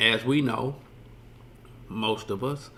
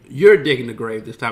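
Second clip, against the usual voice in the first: mock order; 8 dB louder than usual. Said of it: "And he's like".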